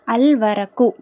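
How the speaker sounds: "அல் வரக்கு" with a held L; teacher's careful "அல் வரக்கு", L fully sounded; lam pronounced. Shown as a demonstration. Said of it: "லாம் உச்சரிக்கப்படணும்".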